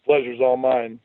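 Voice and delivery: sober. Acted. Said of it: "John replied soberly".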